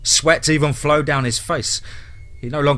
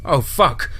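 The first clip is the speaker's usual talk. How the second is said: a mild yell of terror; terrified yell; 4 semitones higher than usual. Acted. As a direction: recoil in horror as you cry out. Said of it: "Tyler yelled in terror".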